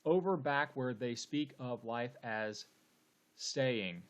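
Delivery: measured, even reading of the verse; steady beat-counting delivery of "Over back where they speak"; syllable-counting reading. Shown as a demonstration. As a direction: read the line syllable by syllable, counting beats. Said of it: "let's count the number of syllables".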